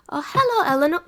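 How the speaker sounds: high, whispery first try at a granny voice; tentative sweet old-lady hello; old cat grandma. Acted. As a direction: DM testing the Nan voice, high and breathy. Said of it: "practice this voice or this accent".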